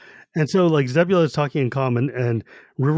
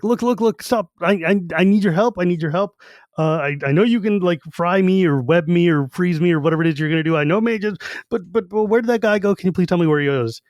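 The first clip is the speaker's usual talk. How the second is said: higher, rushed, mock-panicked pleading; panicked babbling; 4 semitones higher than usual. Half-elf begging the mage for help, mock-panicked and higher. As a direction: play a half-elf losing his head. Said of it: "he starts panic, talking at this guy".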